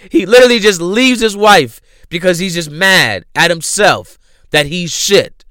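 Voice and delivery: usual speaking voice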